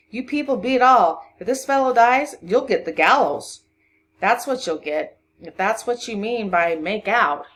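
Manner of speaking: loud, indignant threat; exclaiming. A narrator's reading. Constable warning the family of the gallows, exclaiming. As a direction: scold them at high volume. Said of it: "exclaimed the constable".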